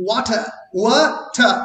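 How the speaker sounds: Water with WA hit and ter dropped; জলের মতো: water শব্দের প্রথম অংশে জোর; stress on first syllable. Shown as a demonstration. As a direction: punch the first syllable of water, let the second fall. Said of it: "ওয়াতে stress পড়ছে, আর টারে stress পড়ছে না".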